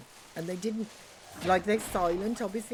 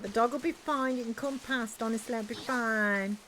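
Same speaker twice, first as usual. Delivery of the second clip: whiny voice; 3 semitones higher than usual. Retold or imitated. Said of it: "I always do those whiny voices".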